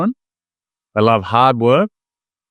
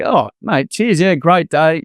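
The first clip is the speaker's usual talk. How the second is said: happy customer; 6 semitones higher, slower than usual. Retold or imitated. Customer answering cheerful barista.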